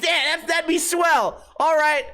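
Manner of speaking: high-pitched sarcastic chumminess; mock enthusiasm. Customer pretending to befriend preaching clerk, sarcastically keen. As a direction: gush as if hitting it off, hammed-up.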